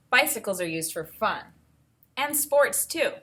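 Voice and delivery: clear, even read-aloud voice; reading to children. Acted. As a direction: read the book to the class. Teacher reads book aloud.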